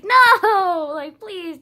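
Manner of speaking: high, crying plea; pleading. Retold or imitated. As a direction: beg through tears. Begging against her anxiety.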